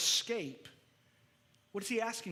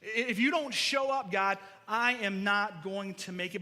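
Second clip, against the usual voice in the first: louder desperate prayer; urgent plea; 4 dB louder than usual. Shown as a demonstration. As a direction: cry it out with desperation. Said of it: "How I would say it".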